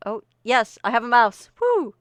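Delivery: yes, a delighted little win; excited. Real, not acted. Finally gets mouse on screen.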